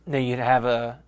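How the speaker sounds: hoarse, catching throat; rough throat, frog caught. Real, not acted. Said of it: "I got a frog in my throat".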